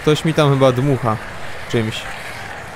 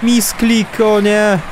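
dismayed; 6 semitones higher, much slower than usual. Real, not acted. Dismay at misclick.

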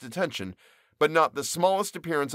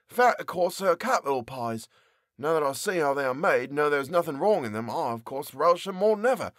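baker's voice; 3 semitones higher than usual. Acted. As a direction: voice the young baker, a bit put out. Character keeps talking about pies.

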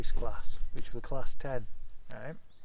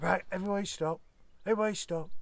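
higher, firm teacher halting the class; stern teacher; 6 semitones higher, 3 dB quieter, faster than usual. Retold or imitated. Teacher stopping the class after being hit, stern command. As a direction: snap the class to attention.

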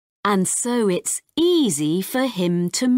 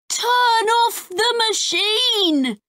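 urgent shout. Acted. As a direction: yell it to stop the machine. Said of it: "shouts Ben".

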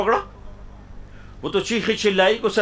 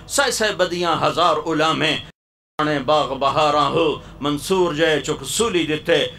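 poem recitation. Acted. Preacher reciting Bahu's verse to the congregation, lilting. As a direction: chant each verse like a qawwali line.

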